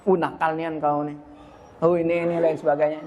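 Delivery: mock dialect scold; lightly voiced parent branding the child. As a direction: snap at the kid as a naughty one. Parent labeling child naughty.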